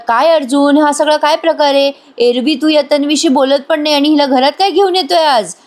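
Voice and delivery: a mother's mock-angry questioning; angry demand. Kalpana questioning Arjun angrily about Tanvi. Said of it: "कल्पना ताई चिडतात आणि म्हणतात".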